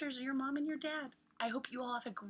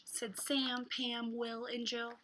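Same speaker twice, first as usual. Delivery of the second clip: hot; much slower than usual. Acted. Reads picture book to children.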